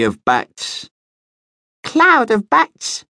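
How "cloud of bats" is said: much higher, slow squeaky voice; squeaky little bat. A narrator's reading. Young bat corrects his uncle with a high squeak. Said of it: "squeaked a fourth voice".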